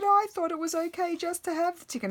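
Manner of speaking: mock sobbing kid's voice; imitating crying daughter. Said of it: "She said".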